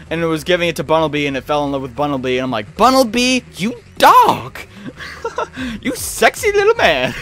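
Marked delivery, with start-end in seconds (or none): 2.8-7.1 high, squeaky mock cheer for a ladies' man; teasing cheer. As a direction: hype him up like a cheeky buddy.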